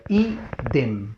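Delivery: idem split as Í-dem with a short gap; syllable by syllable. Shown as a demonstration. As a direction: sound out idem in two parts, stress on the first. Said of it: "Si la veo". (idem silabeado, Í-dem)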